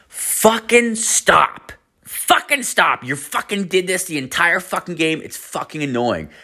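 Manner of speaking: very high, drawn-out screechy imitation of an annoyed woman; mock angry girl. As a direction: whine it high and slow, mocking her complaint. Retold girl yelling at him.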